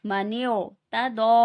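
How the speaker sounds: light ता, then heavy rounded दो; मन्यू ता दो with a thin t and a full, long दो; thin ta, thick dad. Shown as a demonstration. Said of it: "ता को बारीक".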